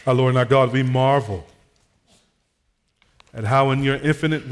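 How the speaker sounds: measured pastoral prayer with long pauses; public prayer. Real, not acted. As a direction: address God firmly in short, spaced phrases. Leads a closing prayer.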